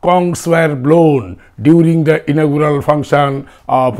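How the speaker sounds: slow dictation. Shown as a demonstration. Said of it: "dictating example sentence".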